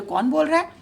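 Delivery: who's there, spoken up in a fright; frightened call. Acted. Frightened pigeons call out to a hidden voice, startled and loud. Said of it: "तो वो डर गए".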